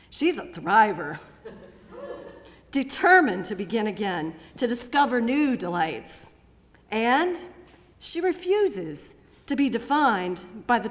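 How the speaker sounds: measured declamation with pauses between phrases; resolute spoken-word recital. Acted. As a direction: affirm each title proudly, then ease down at the close. Resolute poem recited to audience.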